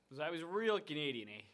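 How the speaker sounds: playful Canadian with a drawn eh; bad Canadian accent, hammed up. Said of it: "talk in horrible Canadian accent".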